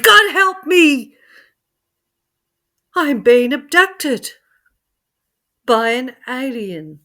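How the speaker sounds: high loud scream, fading at the end. Acted. Joe being lifted by the light, screaming for help. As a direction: cry out for help in terror. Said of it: "And he screamed".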